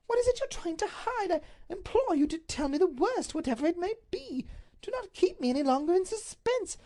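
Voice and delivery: high, urgent pleading lady's voice; anxious duchess. Acted. Duchess implores her husband and Dacre, pitched high and frantic. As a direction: beg him to end the suspense.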